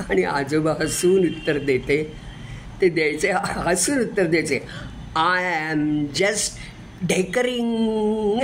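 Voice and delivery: lively storytelling recital of a poem; poem recitation. Acted. Reciter tells a grandchild's poem about grandpa, lively recital. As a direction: tell it like a grandchild remembering grandpa.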